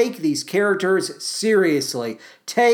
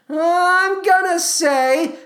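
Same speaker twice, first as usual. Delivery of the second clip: drawn out; 10 semitones higher, much slower than usual. Shown as a demonstration. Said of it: "I'm gonna say yes".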